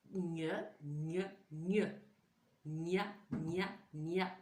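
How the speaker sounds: "Gne, gne, gne" then "Gna, gna, gna" repeated deliberately; "Gna, gna" said again and again like a drill; silly drill. Shown as a demonstration. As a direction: play with the sound a bit foolishly. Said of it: "On a l'air un peu bête".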